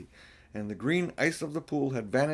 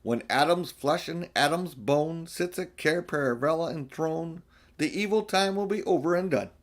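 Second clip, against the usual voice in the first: put-on recited like an old rhyme, a little lifted; 3 semitones higher than usual. A narrator's reading. Mr Beaver recites an old rhyme to the children, chanted. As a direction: intone the prophecy verse. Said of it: "another one of the old rhymes".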